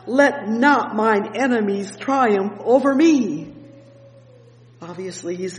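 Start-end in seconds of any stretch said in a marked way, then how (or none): 0.1-3.5 slow, solemn psalm reading, words drawn out; preached scripture, slow and solemn. Acted. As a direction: read the verse slowly. Reads verse two slowly.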